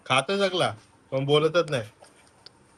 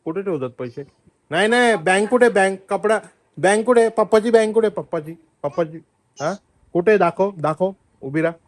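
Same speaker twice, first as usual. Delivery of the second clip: excited; 6 semitones higher, 7 dB louder than usual. Real, not acted. Loudly quizzing the child.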